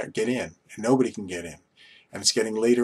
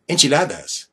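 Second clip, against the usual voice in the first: put-on enchiladas in an overdone Spanish accent, higher and louder; exaggerated Spanish accent; 4 semitones higher, 5 dB louder than usual. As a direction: hit enchiladas with a hammed-up Hispanic accent. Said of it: "they would put that accent on".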